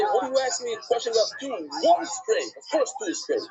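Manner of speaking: indignant challenge, lightly acted; mock indignation. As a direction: play a teacher annoyed at the question. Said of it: "you'd be very mad and you'd say".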